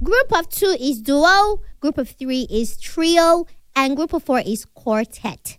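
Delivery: slow, measured little lesson; patiently paced teaching of a rule; slow explaining. Real, not acted. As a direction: spell it out slowly, term by term. Teaching words to Uncle, slowly.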